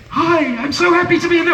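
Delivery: high, chirpy cheerful greeting; a light take on an overly cheerful hello; Jensen Ackles voice. Retold or imitated. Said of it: "the familiar sound of Jensen Ackles' voice".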